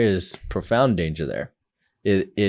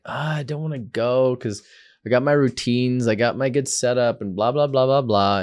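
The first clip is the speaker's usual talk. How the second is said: whiny; 4 semitones higher than usual. Retold or imitated. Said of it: "This sounds like a whiny little bitch".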